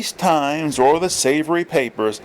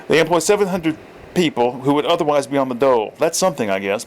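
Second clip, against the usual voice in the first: corrected character voice. Shown as a demonstration. Reader correcting Borden's line after using the wrong voice, grudging. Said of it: "I read it in the wrong voice".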